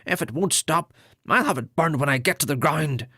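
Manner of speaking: pinched nasal threat, a bit fast; high nasal voice. A narrator's reading. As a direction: keep the nasal voice, cross and hurried. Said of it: "in a high-pitched nasal voice".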